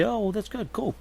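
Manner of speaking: bright upbeat thanks for being corrected; cheerful gracious reply. Retold or imitated. Host answering a viewer who corrected him, cheerfully. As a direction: happily accept the correction. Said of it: "And I'll say".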